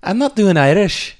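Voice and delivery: a put-on Liverpool English accent, hammed up. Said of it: "that's like Liverpool".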